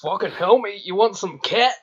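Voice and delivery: exaggerated impression of a Scottish accent; bad Scottish accent. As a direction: offer it in a mock Scottish lilt. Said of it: "impression of each other's accents".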